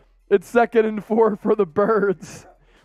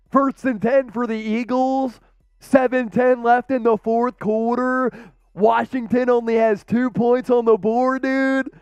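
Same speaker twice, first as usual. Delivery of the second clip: put-on Delco accent; 2 semitones higher than usual. Host calls first and ten for the Eagles, mock Delco accent. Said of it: "Delco all the way".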